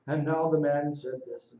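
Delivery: flat reading. Shown as a demonstration. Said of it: "I don't just hear this weird".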